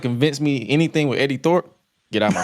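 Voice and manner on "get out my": squeaky, very high outburst; high squeal. Real, not acted. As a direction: squeal it in disbelief. Mock outrage at Eddie Thorpe.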